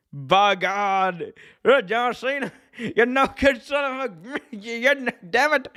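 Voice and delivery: high, excited commentator yell, slowed on good; doing J R losing it at the announce desk; Jim Ross impression. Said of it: "I love a good J R impression".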